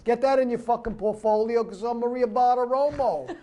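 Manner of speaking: mocking a TV finance host in a lightly put-on Brooklyn accent; pushy Brooklyn accent selling stock tips; Maria Bartiromo Brooklyn accent. Mocking a TV host advising Iowa viewers, light Brooklyn accent. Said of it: "that fucking Brooklyn accent".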